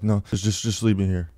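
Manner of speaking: imitated halting, stuck-in-place voice; freaked-out stoned refusal. Stoned guy refusing his friend's help, freaked-out halting voice. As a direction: stammer it, wanting to be left alone. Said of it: "I was literally talking like that".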